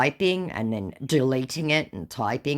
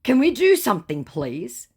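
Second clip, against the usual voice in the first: scammer voice; 9 semitones higher, 6 dB louder than usual. Retold or imitated. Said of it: "To which my scammer says".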